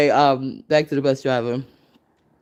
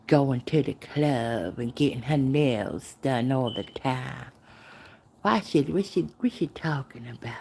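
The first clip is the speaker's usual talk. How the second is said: softer, puzzled muttering gossip voice; mock confused gossip; 6 dB quieter than usual. Gossips puzzling over her, soft baffled muttering.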